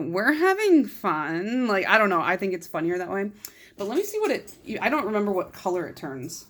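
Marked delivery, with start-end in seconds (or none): 0.0-1.7 heavy swooping sarcasm with "fun" stretched long. Showing how a polish name reads to them: super sarcastic. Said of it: "I read this as, like, super sarcastic".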